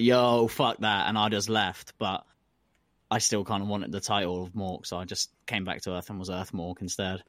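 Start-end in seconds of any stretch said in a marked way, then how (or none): 0.0-1.1 blunt refusal. Retold or imitated. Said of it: "And I was like".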